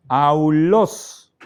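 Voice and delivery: Aulos as au-LÓS, stress on the end; Greek pronunciation. Shown as a demonstration. Teacher reads the Greek word for flute, careful model pronunciation. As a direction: say Aulos slowly in two parts, au and los. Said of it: "se pronuncia".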